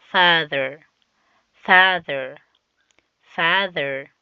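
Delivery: Father with a th-like dh and a falling close; teacher models Father for repetition; model pronunciation. Shown as a demonstration. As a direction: say Father clearly for pupils to copy. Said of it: "Listen to your teacher and repeat".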